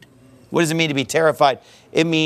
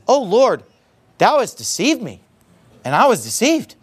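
upset complaint to God, slightly higher; Jeremiah; 4 semitones higher than usual. Acted. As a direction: reproach the Lord, mildly hurt. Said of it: "He's upset".

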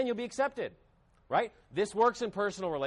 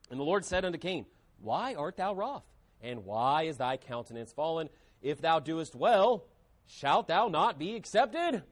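measured, lower scripture reading, slowing at the end; 3 semitones lower than usual. Acted. Preacher reading Genesis to the church, measured and solemn.

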